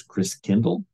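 "Christkindl" said the German way; German-style "Christkindl"; German pronunciation. Shown as a demonstration. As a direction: say "Christkindl" as a German word, with "kindl" at the end. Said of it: "The German pronunciation of Christ child is".

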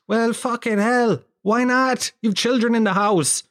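high-pitched comic outrage; appalled retort to a nan; incredulous. Acted. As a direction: exclaim in exasperated disbelief, pitch up. Outraged reply to nan's nostalgia.

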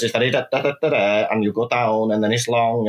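South Welsh tune that drops and lengthens; South Wales cadence on da-da; South Wales accent. Shown as a demonstration. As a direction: go down, then hold it long, South Wales style. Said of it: "Whereas if you're from South Wales".

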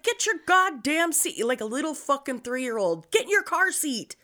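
put-on scolding a toddler. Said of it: "And I'm like".

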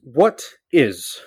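high, loud, teasing interrogator; mock demand. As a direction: press them like a joking cross-examiner. Host jokingly demands an answer.

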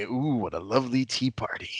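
light sing-song mock dainty voice; half-hearted prissy line; imitating prim quote. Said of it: "I want you to say".

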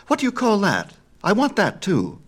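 very high, loud and eager; excited cry. A narrator's reading. Apollo covets Hermes' new pipes, crying out eagerly. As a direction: demand it like an overexcited child. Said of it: "cried Apollo".

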